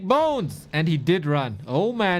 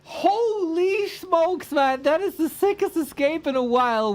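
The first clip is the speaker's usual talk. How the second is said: drawn-out amazed exclamation, much higher; 12 semitones higher than usual. Real, not acted. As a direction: marvel at the escape, slow and high. Amazed at escape.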